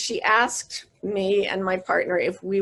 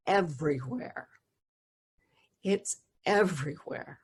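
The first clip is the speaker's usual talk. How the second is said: soft, breathy whispered reveal; hushed whisper; 4 semitones lower, 7 dB quieter than usual. Retold or imitated. Son gently telling his mom about the light, whispered. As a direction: whisper it like a sacred secret.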